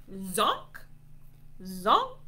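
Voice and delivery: zonk with a quick upward flip; toy zonk noise. Shown as a demonstration. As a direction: imitate a laser toy zapping. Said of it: "Let's try those sounds".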